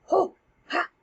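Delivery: high, flustered broken exclamations; comic startled yelps; fumbling Polonius. Acted. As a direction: sputter from behind the curtain. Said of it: "Polonius starts fumbling with the curtains".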